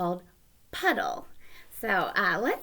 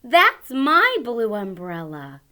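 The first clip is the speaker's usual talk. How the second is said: put-on excited boy; 9 semitones higher, 11 dB louder than usual. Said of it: "And he says".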